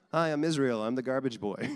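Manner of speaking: mock child introduction. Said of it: "them introducing themselves like that".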